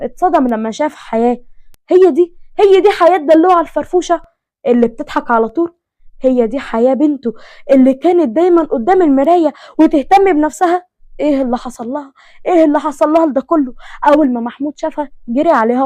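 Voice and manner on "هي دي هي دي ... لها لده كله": louder, stunned disbelief at his daughter; a father shaken seeing his child broken; shocked father. Acted. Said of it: "دخل محمود واتصدم". (أب مصدوم يرى ابنته منهارة، بصوت عالٍ)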